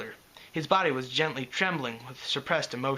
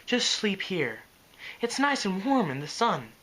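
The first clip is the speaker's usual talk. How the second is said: soothing; 5 semitones higher than usual. Acted. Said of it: "Fluttershy's soothing tones".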